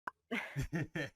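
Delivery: unhinged villain. Shown as a demonstration. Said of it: "an evil count one count laugh for the record".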